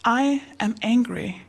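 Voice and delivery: slow, careful model sentence; measured demonstration. Retold or imitated. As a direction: spell out the feeling calmly, word by word. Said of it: "you just say the words".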